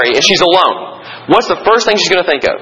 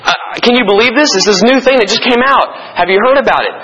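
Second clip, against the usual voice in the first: retold alarm; 4 semitones higher than usual. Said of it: "I said".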